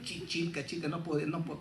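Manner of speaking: stumbling on the CH of "Chilca", softly; failed guttural attempt. Speaker tells Cusco children he cannot manage "Chilca", stumbling attempts. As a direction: imitate trying and failing at a back-of-palate "Chilca". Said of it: "esas no la puedo hacer ni".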